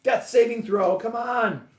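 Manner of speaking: high, loud plea to the dice; rooting for the roll. Real, not acted. Player rolling a death save, excited. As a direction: call it out high and hopeful.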